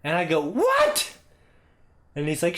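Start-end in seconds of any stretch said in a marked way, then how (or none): 0.4-1.1 very high shouted question; yelled reply. Retold or imitated. Son shouting back to his father in the woods, high yell. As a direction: call back up the hill.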